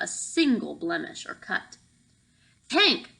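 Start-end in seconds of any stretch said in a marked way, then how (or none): 2.7-3.1 calling out. Acted. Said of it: "the red-headed guard called out".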